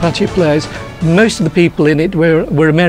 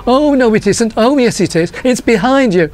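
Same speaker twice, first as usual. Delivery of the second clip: panto audience call-out; 6 semitones higher than usual. Retold or imitated. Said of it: "people knowing to, to say".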